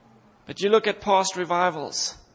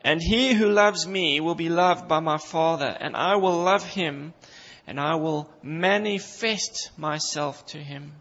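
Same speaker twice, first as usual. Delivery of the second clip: Jesus speaking. Retold or imitated. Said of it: "Jesus speaking".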